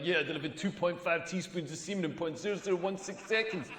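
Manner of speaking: precise machine readout, lightly voiced; robotic search engine. Comic bragging about his speed, a mock computer voice. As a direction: rattle off figures like a computer. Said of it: "I'm like the Google search engine".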